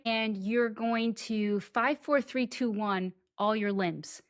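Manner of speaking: counting down slowly, soft; drawn-out countdown from five. Shown as a demonstration. Demonstrating the improv shake-out, a slow soft countdown. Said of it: "it goes something like this".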